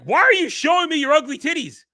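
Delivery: high, loud mock outrage; hammed-up angry complaint; mock angry rant. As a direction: play the offended brute, yelling. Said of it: "make Peak Physical Man angry".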